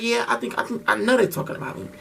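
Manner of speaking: resigned mutter. Retold or imitated. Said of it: "I'm like".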